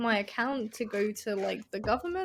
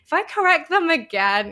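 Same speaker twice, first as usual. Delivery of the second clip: anxious; 7 semitones higher, 9 dB louder than usual. Retold or imitated. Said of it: "I'm like".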